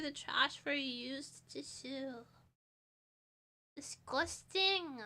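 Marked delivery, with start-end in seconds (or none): 3.8-5.0 slow, drawn-out disgust. Real, not acted. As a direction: recoil from the idea. Disgust at used tissue.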